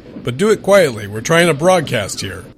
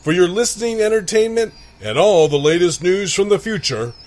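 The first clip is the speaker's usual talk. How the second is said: announcer. Acted. Dramatic show intro.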